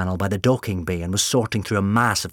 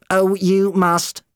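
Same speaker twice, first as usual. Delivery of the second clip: slow menacing doctor; 11 semitones higher, 7 dB louder, slower than usual. Acted.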